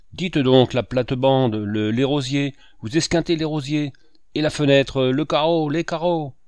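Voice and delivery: high, loud cries of mounting alarm; alarmed shouting. A narrator's reading. Poteau watching the car crush roses and windows, alarmed shouting. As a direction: cry out helplessly as things get wrecked. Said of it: "leva les bras en criant".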